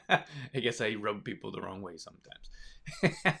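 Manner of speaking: real chuckle through the words; slow, laughing self-aware admission. Real, not acted. Laughs at own unpopularity.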